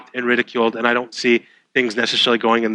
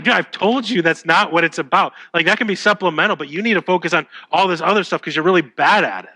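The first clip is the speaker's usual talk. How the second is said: imitating an exasperated friend, pitched higher; mildly annoyed insistence, voice raised in pitch; retold frustration; 4 semitones higher than usual. Wrestling friend correcting his buddy about weightlifting, mildly angry. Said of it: "It actually got him angry".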